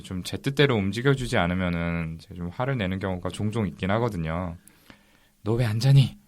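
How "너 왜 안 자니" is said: mildly raised voice. Retold or imitated. Father re-enacting scolding a child who won't sleep or eat, mildly raised voice. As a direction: imitate a parent lightly raising the voice. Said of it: "저도 모르게 언성이 높이는 경우".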